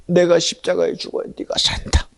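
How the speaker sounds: normal talking voice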